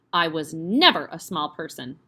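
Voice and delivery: snapped. Acted. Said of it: "she snapped".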